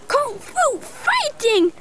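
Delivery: high, slow, stretched martial-arts shout; drawn-out high kung fu chant; kung fu battle cry. Acted. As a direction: belt it out like a kung fu hero. Girl shows her special trick.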